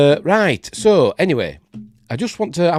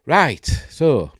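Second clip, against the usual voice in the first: a bit snuffly with a cold; bunged-up nose. Real, not acted. Apologising to stream viewers, bunged up. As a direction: talk through a slightly blocked nose. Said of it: "still a bit bunged up and a bit snuffly".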